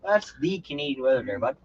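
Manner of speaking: playful mock Canadian accent. Defending the cold rainy weather, in a mock Canadian accent. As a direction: insist in put-on Canadian. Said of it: "in a Canadian accent".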